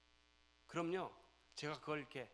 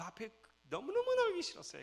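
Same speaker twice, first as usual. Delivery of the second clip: loud, very high pained outcry; loud anguished sermon cry; 10 dB louder than usual. Real, not acted. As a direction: cry it out from the heart. Painful childhood memory.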